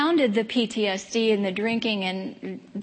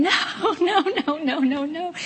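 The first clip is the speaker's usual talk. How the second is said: retold crying mom; 7 semitones higher, slower than usual. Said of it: "she just started screaming and crying".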